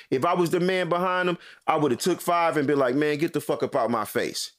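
heated, accusing comeback; retold angry rebuke. Shopper exposing a man's lie in line, retold angry rebuke. Acted quarrel with the beggar.

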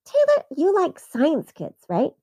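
lightly voiced coaxing mother; gently steering mom. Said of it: "my mom interjected".

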